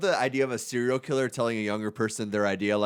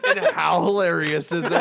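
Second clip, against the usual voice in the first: mock interviewer; 2 semitones higher than usual. Mocking podcast host interview question.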